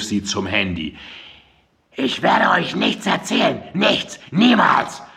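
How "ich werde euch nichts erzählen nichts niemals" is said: shrill shouting. A narrator's reading. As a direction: yell it down the stairwell, slowing on niemals. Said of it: "Mandys schrille Stimme".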